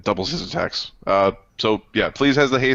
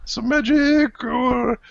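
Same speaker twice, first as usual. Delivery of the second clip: very high, pleading little voice; high character voice. Acted. Character hinting for a better shield, high wheedling voice. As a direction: squeak out a wheedling plea.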